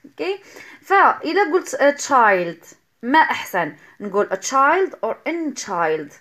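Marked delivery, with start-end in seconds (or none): 1.8-6.1 put-on slow, careful a child then an child; testing a child against an child. Shown as a demonstration. Teacher slowly comparing a child and an child for students. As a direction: sound out "a child" and "an child" slowly for the class. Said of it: "أنا هي أحسن في النطق".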